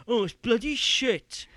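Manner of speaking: loud, high, drawn-out mock grumble; dismissive moaner. Host mimicking someone who just slags games off, dismissive grumbling. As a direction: moan it loudly like a lazy critic. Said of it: "You just going".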